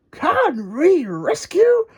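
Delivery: high, slow call to the team; high, drawn-out digger cheer; Scoop's rally call. Acted. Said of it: "shouted Scoop".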